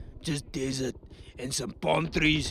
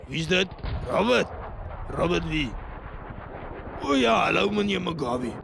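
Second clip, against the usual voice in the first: put-on loud, higher eager phone hello in South African accent; answering phone; 3 semitones higher, 4 dB louder than usual. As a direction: pick up the call cheerfully. Phone call mid-interview.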